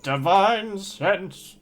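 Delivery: loud, slow, drawn-out shout; shouted catchphrase. Acted. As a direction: belt out "Divine sense!" slowly. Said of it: "blurted out the words "divine sense".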